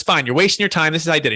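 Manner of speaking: retold exasperated giving-in; imitating a doctor's irritated concession; mildly upset doctor. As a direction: give in grudgingly, a touch annoyed. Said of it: "kinda, like, upset about it".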